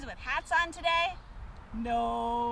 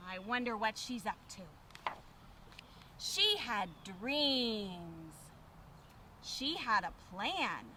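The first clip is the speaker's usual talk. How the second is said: put-on reading to children; 3 semitones lower, slower than usual. A narrator's reading. Reading picture book to children.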